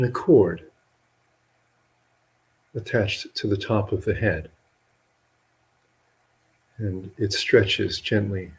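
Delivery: measured meditation guidance with long pauses between phrases; guided meditation. Real, not acted. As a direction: guide listeners gently into relaxing, leaving long silences.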